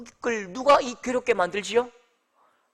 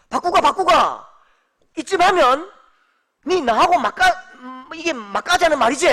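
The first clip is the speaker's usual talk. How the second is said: loud, high, indignant dialect scolding; God, exasperated; 4 semitones higher, 7 dB louder than usual. Acted. God snaps back at Habakkuk's tirade, hammed-up exasperation. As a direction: play an affronted boss telling someone off. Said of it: "지금 하나님이 그 대사를".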